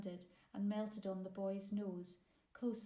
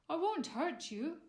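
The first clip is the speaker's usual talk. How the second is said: gentle; 7 semitones higher, 6 dB louder than usual. A narrator's reading. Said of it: "he smiled gently".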